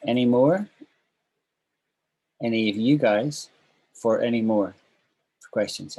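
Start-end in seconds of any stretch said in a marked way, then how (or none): 0.1-4.7 calling "Any more?" loudly to the class; loud rising call "Any more? Any of you guys for any more?". Shown as a demonstration. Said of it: "By which I'm saying".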